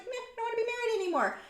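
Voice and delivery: high, quick, offhand imitation; mock bored husband. Wife retelling her dream husband's divorce announcement, casually bored imitation. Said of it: "he's not mad at me. He's just like".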